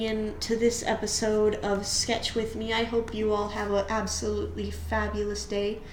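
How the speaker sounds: put-on fabulous sign-off voice; fancy sign-off. Shown as a demonstration. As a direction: camp it up on the sign-off. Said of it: "those are really bad".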